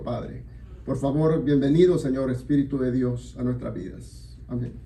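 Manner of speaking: earnest prayer in short phrases. Real, not acted. Leads congregation in prayer.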